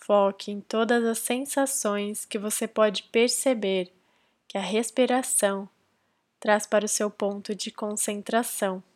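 calm, measured meditation guidance with long pauses; guided meditation. Real, not acted. Podcast host leading listeners into silent breath concentration, guided meditation. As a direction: guide them gently into focus, leaving space between phrases.

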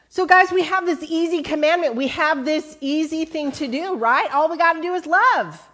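upbeat preacher push; rallying. Real, not acted.

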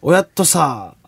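Kagoshima dialect greeting, drawn out slowly; 鹿児島弁. Shown as a demonstration. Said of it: "っていうのが「お疲れ様」". (鹿児島弁でゆっくり)

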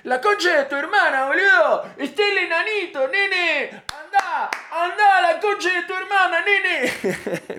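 put-on high, loud swearing Argentine kid; hammed-up Argentine brat cursing; Argentine accent. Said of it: "así no habla mi sobrina".

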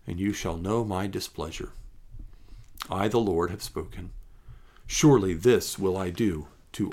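measured, solemn Bible reading; scripture reading. Acted. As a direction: read the passage with weight and calm. Reads scripture passage aloud.

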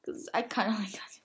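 unvoiced whispered confession; whisper aside. Real, not acted. Friend admitting she likes gacha, in a whisper. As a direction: whisper it like a secret.

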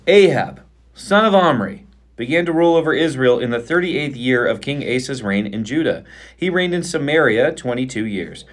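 measured Bible reading aloud; scripture reading. Acted. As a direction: read the passage steadily aloud.

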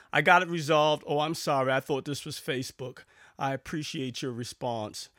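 sarcastic reply, punched loud at the start then easing. Retold or imitated. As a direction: fake an apology with a side of sarcasm. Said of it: "with a side of sarcasm".

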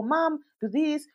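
put-on high, slow little-kid whine; toddler demanding. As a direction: drag out the demand like a sleepy toddler.

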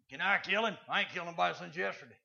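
lightly voiced bloodthirsty sidekick; eager soldier. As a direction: beg the boss for permission, eagerly. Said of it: "Joshua's soldier had a big old stick".

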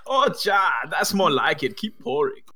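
stereotypical German-Swedish pig voice; lightly hammed-up German-Swedish accent. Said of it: "German, Swedish voice that he has".

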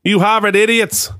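Harvard said the Boston way; a touch of Boston accent. Retold or imitated. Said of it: "I just said Harvard into Boston".

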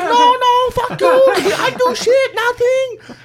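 the owner yelling his denial in a put-on Chinese accent; mock Chinese accent, angry. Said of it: "not profound on my accent".

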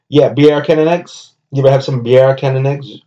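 hammed-up Jamaican diner; mock Jamaican accent. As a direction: ask about breakfast in a Jamaican accent. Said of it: "him doing accents".

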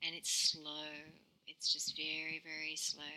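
soothing meditation hush; quiet and calm. Shown as a demonstration. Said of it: "notice our voice is starting to go much more quiet".

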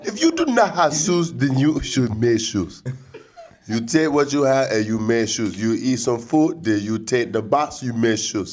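put-on deliberate, comic African accent; mock African accent. African adviser telling shoeless listeners what to do, mock African accent. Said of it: "That is the worst African accent ever".

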